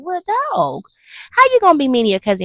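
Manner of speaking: high, quick mock telling-off; indignant scolding. Viewer scolds cousin for being mean to Ellen, high and indignant. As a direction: take the cousin to task, high and fast.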